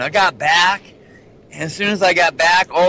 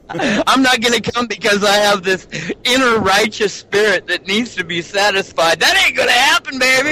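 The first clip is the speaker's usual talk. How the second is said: defiant heathen voice; 4 semitones higher than usual. Retold or imitated. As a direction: shout it like a stubborn sinner. Acting out a proud heathen.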